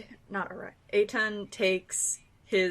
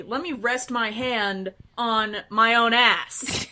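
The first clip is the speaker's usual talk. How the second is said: slow, louder, half-baked threat; mock threat; 5 dB louder than usual. Player threatening the man who touched a shoulder, failed mock threat. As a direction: try to menace and fall short. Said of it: "not as threatening as you thought it sounded".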